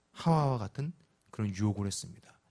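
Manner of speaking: ordinary talk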